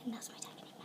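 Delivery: soft unvoiced whisper. Real, not acted. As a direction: whisper so dad won't hear. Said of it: "didn't even hear me whisper".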